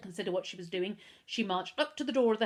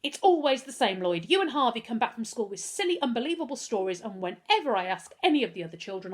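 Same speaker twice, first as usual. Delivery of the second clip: raised, scolding anger; very angry; 3 semitones higher, 5 dB louder than usual. Acted. Mother angrily scolding her son about lies, raised voice. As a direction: tell him off firmly. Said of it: "Missus Hunter was very angry".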